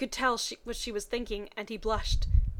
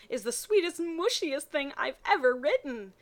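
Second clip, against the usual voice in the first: higher, sing-song gushing read; mock gushing author; 4 semitones higher than usual. Mocking a fanfic author's gushing note, higher and sing-song. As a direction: gush over your own fanfic like a proud kid.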